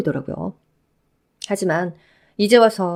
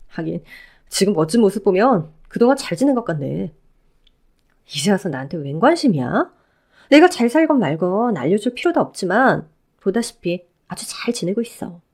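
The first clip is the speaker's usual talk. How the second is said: lightly voiced ex-wife, cold and scornful; a hint of a scornful woman cutting him down. Ex-wife rebuffing her ex-husband, lightly voiced cold scorn.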